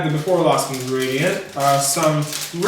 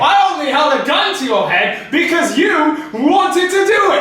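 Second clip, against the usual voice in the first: trying not to laugh; 11 semitones higher, 5 dB louder than usual. Real, not acted. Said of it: "Me neither".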